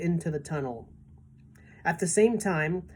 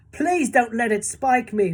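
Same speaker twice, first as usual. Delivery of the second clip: high, loud pleading earthworm; begged; 6 semitones higher, 5 dB louder than usual. A narrator's reading. Earthworm begging James to keep it safe, high and scared. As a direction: beg not to be spiked. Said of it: "begged the earthworm".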